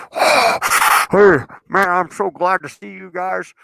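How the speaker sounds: high, effusive mock relief; retold relieved greeting. Lost F-fourteen pilot greets tanker crew, retold relief. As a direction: imitate a lost flier's heartfelt hello.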